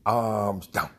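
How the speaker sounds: loud barked commands to the group; shouted drill commands. Retold or imitated. Leader calling the group through an arm drill, loud. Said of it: "I said".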